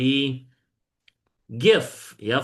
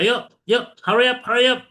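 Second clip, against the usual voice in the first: relaxed; 12 semitones higher, 6 dB louder, faster than usual. Shown as a demonstration. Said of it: "Apakah santai?".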